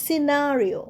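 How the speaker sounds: scenario as "si-nario", no K; silent C. Shown as a demonstration. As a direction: model scenario starting on a plain S. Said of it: "সি উচ্চারণ হবে না".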